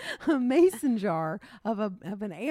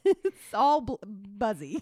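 teasing laugh; 3 semitones higher, 3 dB louder, much slower than usual. Real, not acted. Teasing sister's word.

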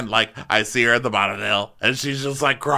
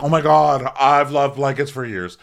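high, loud excited gush; hammed-up delight over blankets; mock gushing; 5 semitones higher, 5 dB louder than usual. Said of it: "She's like".

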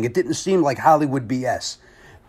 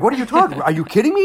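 higher-pitched incredulous protest; retold disbelief; 8 semitones higher, much faster than usual. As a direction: recall being floored by unexpected praise. Retells his disbelief at backstage praise.

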